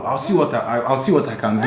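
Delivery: put-on playful Nigerian accent. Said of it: "The Nigerian guys".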